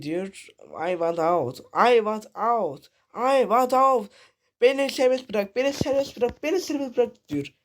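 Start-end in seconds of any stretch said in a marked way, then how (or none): 0.9-4.1 escalating cry to be freed; building plea. Retold or imitated. Monster pleading to be let out. 4.6-7.3 higher and higher pleading; climbing cry to be freed; rising plea. Retold or imitated. Monster pleading to be let out.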